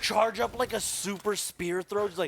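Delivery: booming cereal-mascot enthusiasm; Tony the Tiger. Acted. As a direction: hype it up like a cartoon mascot. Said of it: "You sound like Tony the Tiger right now".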